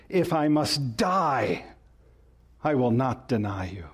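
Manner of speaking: "die" held long and weighty, "deny you" dropping; emphatic vow. Acted. Peter pledging to die before he would deny, emphatic on "die". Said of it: "But he said emphatically".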